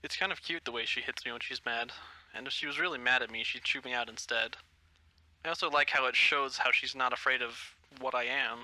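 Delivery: thinking to himself fondly; inner thoughts. Acted. Legoshi muses privately about Haru hitting him.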